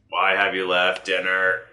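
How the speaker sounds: slow, mechanical robot guard. Acted. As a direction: speak like a stiff robot. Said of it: "you said it like a robot voice".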